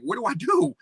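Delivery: mildly acted high-pitched wail, not a real cry; retold despair. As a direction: replay a desperate question, pitch lifted but not screamed. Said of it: "screaming and crying because I'm like".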